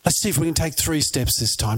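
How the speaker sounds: lightly acted parental coaxing; encouraging. Parent urging a toddler to walk, lightly acted encouragement. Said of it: "You encouraged them".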